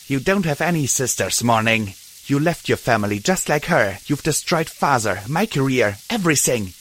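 hissing. Acted. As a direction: spit out the blame. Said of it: "Dusk hissed up at her".

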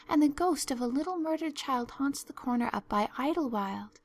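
put-on high, earnest girl spinning spooky tales; dramatic Anne. Anne tells Marilla about imagined ghosts, fearful and dramatic. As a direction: relish the horrors with a shudder.

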